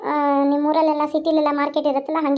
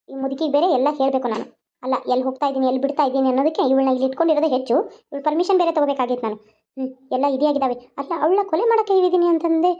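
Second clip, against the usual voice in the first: scheming daughter-in-law aside; faster than usual. Acted. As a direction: grumble your plot under your breath. (ತಗ್ಗಿದ ಧ್ವನಿಯಲ್ಲಿ ಕುತಂತ್ರಿ ಸೊಸೆಯ ಗೊಣಗಾಟ)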